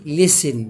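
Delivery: "listen" with no T; S straight into N in listen; silent T. Shown as a demonstration. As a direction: say listen as "lissen". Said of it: "يبقى ال تي مش هينطق".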